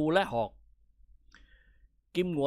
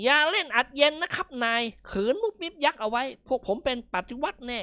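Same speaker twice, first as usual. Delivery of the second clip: mild shout; 8 semitones higher than usual. Acted. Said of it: "ตะโกนมา".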